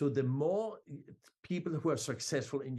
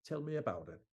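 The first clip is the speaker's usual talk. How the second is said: very calmly; 3 dB quieter, faster than usual. Shown as a demonstration. Seller to a reluctant child, calm and softer. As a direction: say "Tell me about it" gently, with total confidence. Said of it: "very calmly you say".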